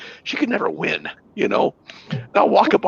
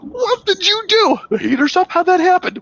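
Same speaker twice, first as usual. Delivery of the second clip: imitating puzzled wife. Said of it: "after about two".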